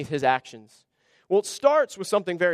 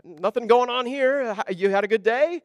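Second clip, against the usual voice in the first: mock-casual cover-up. Saul greets Samuel, hiding the offering: mock-casual breezy. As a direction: play it innocent, nothing to see here. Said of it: "Saul going to Samuel and saying".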